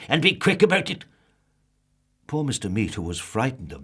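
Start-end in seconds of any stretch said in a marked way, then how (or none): 0.1-1.1 loud, higher curt demand; loud grumpy snap; snapped. Acted. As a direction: bark the order at the butcher. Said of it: "snapped Mister Grumpy".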